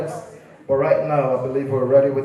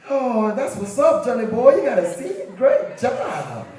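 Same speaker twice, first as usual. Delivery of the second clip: easygoing dad; 5 semitones higher than usual. Acted. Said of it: "It's the dad".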